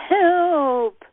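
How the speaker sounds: "help" cried out high and loud, stretched and falling; primal scream. Shown as a demonstration. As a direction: let the scream burst out of you. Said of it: "let that scream come up".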